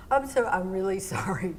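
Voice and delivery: sheepish whisper with a laugh; whispered apology. Retold or imitated. Skater apologizing to the electricians in a sheepish whisper. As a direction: whisper it, embarrassed and giggling. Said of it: "I was like".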